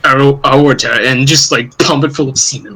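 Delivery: imitating a low, tense, seething rant; a hint of low simmering rage; low tense fury. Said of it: "the voice goes down, like, tense".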